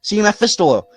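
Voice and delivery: put-on high eager boy reading out; excited reading. A narrator's reading. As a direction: read the wonders with awe.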